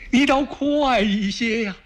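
high, pressing cry of impatience; impatient emperor. Acted. Emperor hurrying the late messenger, impatient high cry.

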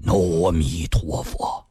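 slow, low intoned blessing; reverent Buddhist invocation. A narrator's reading. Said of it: "合十为礼".

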